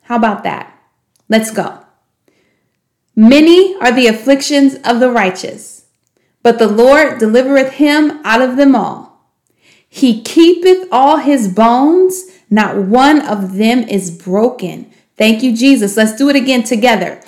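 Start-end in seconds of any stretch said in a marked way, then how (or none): 3.1-14.9 measured, slowing reading of scripture; scripture recitation. Shown as a demonstration. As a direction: recite it like a memory verse, slowing at the end.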